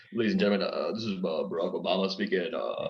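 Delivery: lightly voiced pilot's announcement, long uhs; Barack Obama. Shown as a demonstration. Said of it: "he looks a bit like a pilot".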